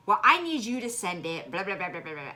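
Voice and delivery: high, loud, pushy mock of a demanding woman; mocking quote. Mocking the Girl Scout leader's demand to the grieving daughter, high and pushy. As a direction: sneer it out, dismissive and demanding. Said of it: "Her answer was".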